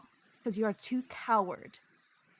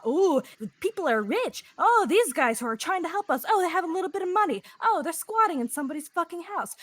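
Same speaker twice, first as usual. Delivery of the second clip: mocking whine; 6 semitones higher, 3 dB louder than usual. Mocking the rebel's complaints.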